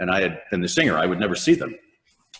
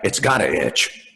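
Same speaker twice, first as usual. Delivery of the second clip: tough guy; slower than usual. Retold or imitated. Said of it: "Mister Tough Guy".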